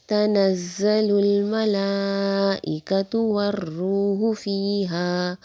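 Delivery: slow chanted Quranic recitation. Shown as a demonstration. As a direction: recite it slowly, in tajweed style. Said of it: "والروح فیہا سے آپ ملا کر آگے پڑھیں گے". (آہستہ تلاوت کا انداز)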